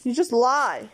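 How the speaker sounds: loud yell after him; yelling across the room. Real, not acted. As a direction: shout it so it carries upstairs. Shouting after he leaves.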